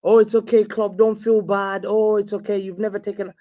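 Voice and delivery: lightly put-on pitying voice; mock consoling. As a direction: imitate fans soothing their manager. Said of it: "I looked at all these reply".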